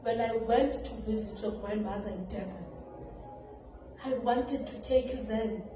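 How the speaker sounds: low, softened dramatic monologue; hushed confession. Acted. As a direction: confess it quietly to your grown child. Mother's monologue, confessing to child.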